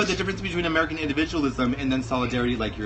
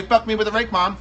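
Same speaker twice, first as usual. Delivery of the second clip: mock crazy voice; 4 semitones higher than usual. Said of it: "That's not a good voice".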